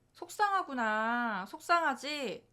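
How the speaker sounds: put-on slow, gentle sympathy to an upset child; lightly voiced tender mom; soothing empathy. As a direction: soften and draw it out, comforting.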